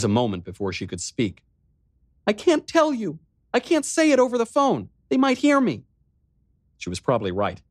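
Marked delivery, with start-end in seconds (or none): 2.3-5.8 high, louder, frantic sobbing voice; frightened girl falling apart; panicked sister. Acted. Riley panicking to her brother on the phone.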